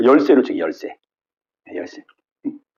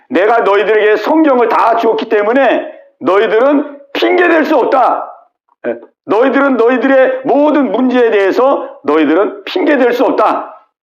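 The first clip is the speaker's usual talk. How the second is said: acted divine verdict, pitched high; firm pronouncement; 5 semitones higher than usual. God telling people they have no excuse, firmly declaring. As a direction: declare it emphatically in a raised pitch.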